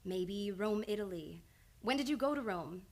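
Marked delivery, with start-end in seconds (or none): 0.0-1.4 slow coaxing. Shown as a demonstration. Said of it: "Now think of Rome".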